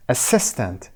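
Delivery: "assistant" falling after a stressed SIS; stress on second syllable. Shown as a demonstration. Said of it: "قسمت دوم روی سس".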